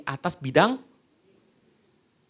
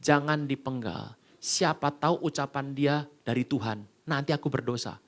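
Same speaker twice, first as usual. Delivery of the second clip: calm king; 5 semitones lower, 5 dB quieter than usual. Retold or imitated. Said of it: "Daud bilang apa".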